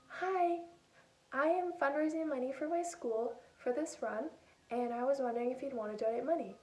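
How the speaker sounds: a hint of a polite little kid asking. A child asking grandparents on the phone for donations, small voice. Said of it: "talking in my little voice".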